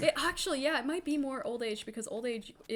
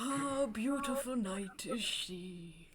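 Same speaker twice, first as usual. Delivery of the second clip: slow breathy recital; whispered poetry; 6 dB quieter, slower than usual. Acted. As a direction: hush it like a love poem. Old man reciting poetry.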